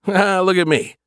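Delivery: chuckling at himself; self-mocking laugh. Real, not acted. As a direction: laugh at your own fancy words.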